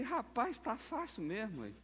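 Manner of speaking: high, soft squeaky aside; mock amazement. Pastor reacting to an easy-ordination video, mock amazement. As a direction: marvel in a light, high voice.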